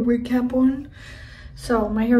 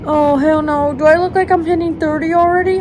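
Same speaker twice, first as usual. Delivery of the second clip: shocked; 2 semitones higher, 4 dB louder than usual. Real, not acted. Reacting to rough skin.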